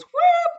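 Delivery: high-pitched whoop; quick high "whoop" as a sound effect; imitated whoop. Podcast guest showing how body image suddenly goes, imitated whoop.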